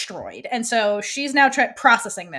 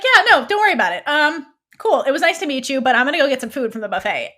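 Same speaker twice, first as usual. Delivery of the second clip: breezy brush-off; 2 semitones higher, 4 dB louder, faster than usual. Retold or imitated. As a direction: rattle it off while already walking away. Dean brushes Abigail off.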